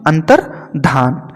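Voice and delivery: अंतर्धान slowly, split as antar, dhaan; broken into parts. Shown as a demonstration. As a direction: pause inside अंतर्धान between antar and dhaan. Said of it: "होता है अंतर्धान".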